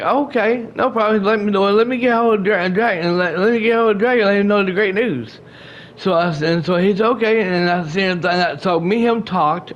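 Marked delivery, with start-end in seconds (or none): 0.0-5.4 higher, eager friend's voice; lightly voiced cheerful Daryl; imitating Daryl. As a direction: bounce it up, happy to help. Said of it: "and Daryl's like".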